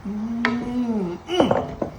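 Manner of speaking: drawn-out "mm-mm" over good food; appreciative mm-mm. Real, not acted. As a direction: draw out a hum of relish. Relishing the stew.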